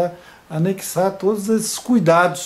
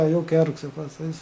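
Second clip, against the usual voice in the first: direct order; 3 dB quieter, much faster than usual. Shown as a demonstration. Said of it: "Ao invés de falar".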